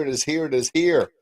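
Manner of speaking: slow, stretched and savoured, falling at the end; slow drawn-out. Real, not acted. Author savouring the book news for listeners, slow and drawn out. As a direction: linger on it like a grand finale.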